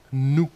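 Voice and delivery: "Nou" with the first sound lengthened; emphatic, stretched n in "Nou"; sounded-out syllable. Shown as a demonstration. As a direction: make the opening n of "Nou" stand out. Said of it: "Qu'est-ce qu'on entend d'abord?".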